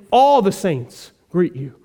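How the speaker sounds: slow, weighted emphasis on "All"; emphatic. Retold or imitated. Paul sending the church's greeting, said emphatically. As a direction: lean on "All" and let the greeting land slowly. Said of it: "more emphatically".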